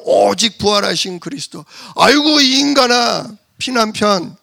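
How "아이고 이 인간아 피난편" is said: exasperated wife, sighing at husband; mock-scolding sigh; wife fondly scolding husband; wife's sigh. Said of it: "십보라가 남편한테".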